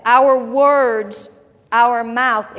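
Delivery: emphatic. Real, not acted. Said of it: "preacher emphasising key phrase".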